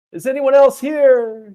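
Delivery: very high, loud, slow calling voice.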